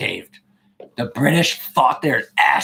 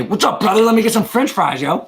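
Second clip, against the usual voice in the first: higher-pitched exaggerated American dude accent; mock American accent; 5 semitones higher than usual. Shown as a demonstration. Streamer showing a stranger how Americans talk, mock American accent. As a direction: ham up a casual American accent. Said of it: "do your best American accent".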